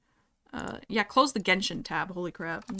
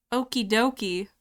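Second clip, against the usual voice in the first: tentative go at a Canadian accent; mild, unsure Canadian accent; attempted Canadian accent; slower than usual. Shown as a demonstration. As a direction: try your best Canadian voice, not very convincingly. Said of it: "in your most Canadian voice".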